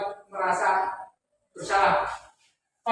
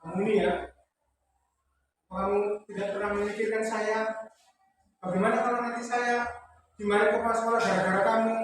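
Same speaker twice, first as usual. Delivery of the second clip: soft guilt-tripping. Shown as a demonstration. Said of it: "Ya lembut, misalnya lembut".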